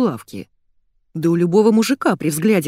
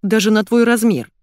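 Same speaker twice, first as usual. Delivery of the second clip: louder snapping retort; a sharp, louder snap; bark; 5 semitones higher, 6 dB louder than usual. A narrator's reading. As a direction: bark it out, irritated. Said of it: "рявкнула я".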